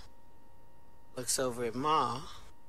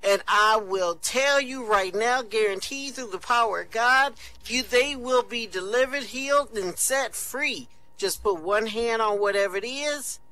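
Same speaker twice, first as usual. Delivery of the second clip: high, loud, fervent preacher calling out; mock revival preacher at full force; radio evangelist; 7 semitones higher, 4 dB louder than usual. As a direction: whip up the listeners like a radio healer. Evangelist's radio call to touch.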